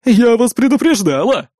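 loud snarling gloat; growling dog voice. A narrator's reading. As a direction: growl it with a sneer. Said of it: "прорычала она с ехидной усмешкой". (ехидное рычание)

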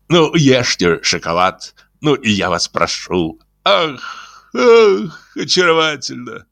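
high, gushing, flattering voice; gushing Iznurenkov. Acted. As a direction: coo it out like a fawning wit. Изнуренков voiced by narrator. (восторженный, высокий заискивающий голос)

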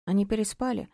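ordinary delivery

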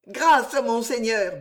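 slow, pleading stammer; stammering plea. Acted. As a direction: beg for mercy, faltering. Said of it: "bégaya Bernice".

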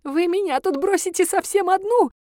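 put-on high, tearful old-woman begging; crying granny. A narrator's reading. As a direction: beg through tears like a helpless old woman. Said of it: "стала просить и плакать бабулька". (старушка плача умоляет, высоким голосом)

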